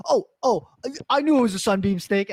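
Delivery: high, fast flustered excuse; flustered backpedal. Retold or imitated. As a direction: kid scrambling to save face. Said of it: "he was like".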